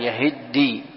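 يهدي as yahiddi, the d doubled; doubled dal. Shown as a demonstration. Teacher repeating the reading for students, geminated d in يهدي. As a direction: hold the dal of يهدي before the long final ee. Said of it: "بتشديد الدال".

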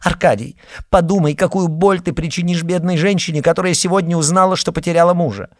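pleading sister. A narrator's reading. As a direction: beg him to stop, hurrying. Tatiana pleading with brother.

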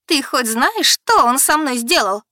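high, loud, slowed yell; завопила; screaming. Acted. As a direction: scream over her sister. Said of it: "завопила она".

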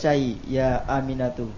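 "Insai ya Aminatu" with a falling end; command intonation. Shown as a demonstration. Student copying the teacher's correction, command intonation. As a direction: bring "Aminatu" down as an order.

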